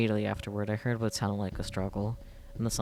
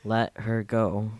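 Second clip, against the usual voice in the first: slow threat; 5 dB louder, much slower than usual. Acted. Threatening the attacker, weapon raised.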